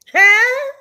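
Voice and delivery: high, loud startled huh. Retold or imitated. Skip startled when Shannon confronts him, loud high huh. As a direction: caught off guard, jolted. Skip's startled reaction retold.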